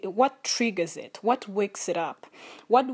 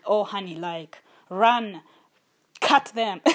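mock yell; 4 dB louder than usual. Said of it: "the voice of trauma is just yelling".

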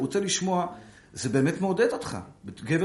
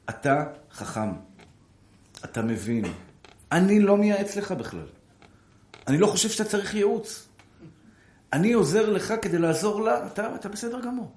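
flattering; 6 semitones higher than usual. Retold or imitated. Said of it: "אני פשוט מתחיל להחמיא לו".

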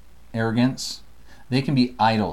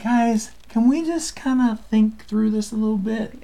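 exasperated Isaiah; 9 semitones higher than usual. Retold or imitated. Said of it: "Isaiah's like".

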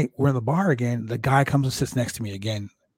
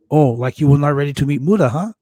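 teasing; 3 semitones higher, 9 dB louder than usual. Retold or imitated. Tanaka teasing him, retold.

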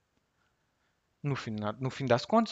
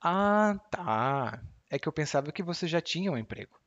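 ironic reply; 3 semitones higher than usual. Shown as a demonstration. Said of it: "irônica".

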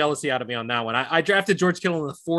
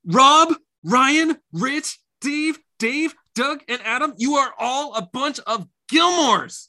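loud shout-out; 8 semitones higher, 3 dB louder, slower than usual. Real, not acted. Shout-out to listeners.

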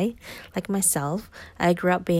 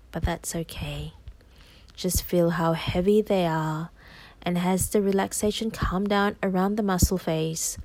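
hypnosis voice. Acted. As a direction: soothe the listener into trance. Guided hypnosis continues.

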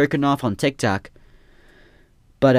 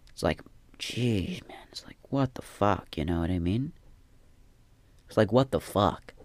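exasperated whisper; 3 semitones lower, 7 dB quieter than usual. Real, not acted. Frustrated creator whispering about fifteen views, exasperated whisper. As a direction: whisper it like you can't believe it.

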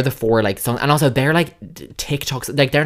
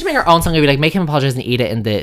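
excited joking; 2 semitones higher than usual. Real, not acted. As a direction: rush the joke out excitedly. Joking about making a song.

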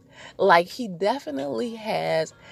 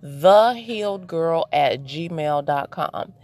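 slow spelled-out email; slower than usual. Shown as a demonstration. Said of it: "the best way to reach me is at".

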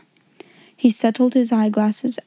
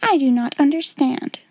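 stiffly offended; 4 semitones higher than usual. Acted. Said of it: "she said stiffly".

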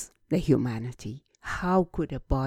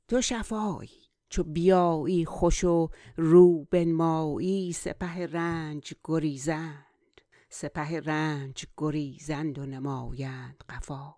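flowing Persian verse recitation; poem recitation; much faster than usual. Acted. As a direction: recite the couplet in a quicker, measured run. Recites Persian verse before translating.

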